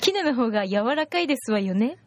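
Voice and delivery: a hint of a posh lady, lightly done; haughty rich girl japanese. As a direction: play a genteel rich lady. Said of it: "奥様方の話ね".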